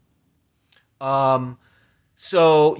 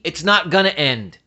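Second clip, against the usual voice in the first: firm, slightly raised retort; retold yell at TV. Talking back to the nurse on TV, a mild mock yell. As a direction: fire it back at the screen. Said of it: "I yelled at the T V".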